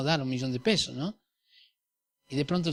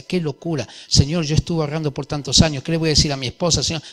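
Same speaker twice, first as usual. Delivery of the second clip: protesting mind; 9 dB louder than usual. Retold or imitated. Voicing his protesting mind.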